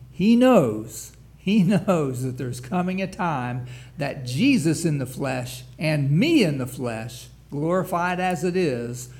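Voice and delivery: fervent preaching. Real, not acted. Preacher drives home the point.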